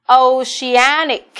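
"Oceanic" đọc thật chậm, to, nhấn "an"; tách từng âm tiết "Oceanic", trọng âm trước đuôi "ic". Shown as a demonstration. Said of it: "là trọng âm ba". (nhấn âm tiết thứ ba của "Oceanic")

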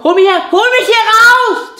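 high cry for help. Acted. Trapped voice calls out.

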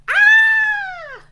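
loud, very high play scream; mock-frightened shriek; scared scream. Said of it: "dragons are so scared".

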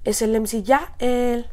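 slow, drawn-out hype call of Es el M C Yael; signature shout. Retold or imitated. Young rapper showing his trademark intro cry, drawn out. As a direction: stretch it out like a stage battle cry. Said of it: "ese grito yo me lo aventé".

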